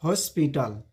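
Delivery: हॉस्पिटल with a rounded "ho"; correct pronunciation. Shown as a demonstration. Teacher gives students the right हॉस्पिटल, rounded "o". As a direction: say हॉस्पिटल as "hoe-spital". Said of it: "pronunciation होता है".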